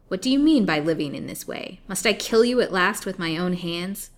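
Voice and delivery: put-on loud, menacing old hag; threatening. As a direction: berate the helpless captive. Old hag threatens her prisoner.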